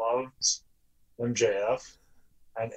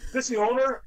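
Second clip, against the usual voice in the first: a lightly voiced rude caller, pitched up; mock caller; 11 semitones higher than usual. Owner mimicking a rude phone caller, lightly pitched up. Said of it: "Some guy called me on the phone and he goes".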